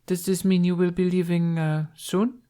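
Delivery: polite but pointed royal question; empress's voice. Acted. Empress probes Hiccup's departure.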